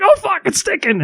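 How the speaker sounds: high-pitched mock-alarmed cry; retold panic. Telling friends about sticking the magnet on, retold panic. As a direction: squeal it in comic panic. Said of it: "I was panicked".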